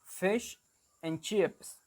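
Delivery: fish and chips said the Australian way, clear short i in FISH; Australian accent. Shown as a demonstration. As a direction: demonstrate Australian 'fish and chips', word by word. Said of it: "In Australian, they will say something like".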